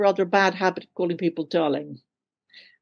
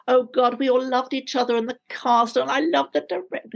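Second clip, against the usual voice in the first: mock gushing; 5 semitones higher than usual. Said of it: "when you hear actors go".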